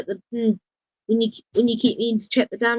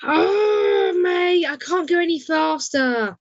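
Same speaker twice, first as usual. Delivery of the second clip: frustrated cry; 4 semitones higher, slower than usual. Real, not acted. Struggling on track, crying out.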